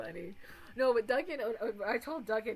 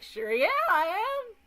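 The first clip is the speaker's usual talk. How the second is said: loud, emphatic mock boast; retold boast; 3 semitones higher, 6 dB louder than usual. Streamer acting out friend's shameless admission, loud boast. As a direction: proudly declare it, drawn out at first.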